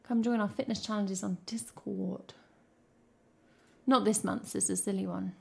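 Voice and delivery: unvoiced playful whisper. Streamer slips chat a plug in a playful whisper. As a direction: whisper the invite like a secret.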